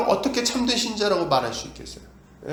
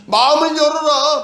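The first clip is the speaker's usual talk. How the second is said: higher, louder and slow, 마음을 stressed; loud slow plea; 8 semitones higher, 7 dB louder than usual. Acted. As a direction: call out 마음을 열어라 slowly and loud. Preacher voices God's plea, then repeats.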